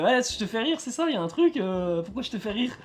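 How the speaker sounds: high, tense tough guy challenge; Joe Pesci impression. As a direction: needle him like a gangster. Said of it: "Joe Pesci qui fait".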